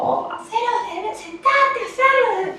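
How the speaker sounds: very high-pitched exasperated ordering; exasperated parent. Acted. Parent ordering the child to sit and do it, exasperated. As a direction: nag in a strained, soaring voice.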